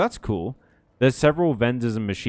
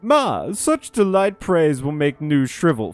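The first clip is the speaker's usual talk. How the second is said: gushing Nu voice; 4 semitones higher, 3 dB louder than usual. Acted. Nu gushes at praise.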